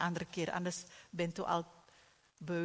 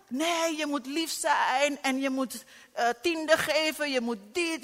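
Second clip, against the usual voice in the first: lecturing church voice; 6 semitones higher, 7 dB louder than usual. Retold or imitated.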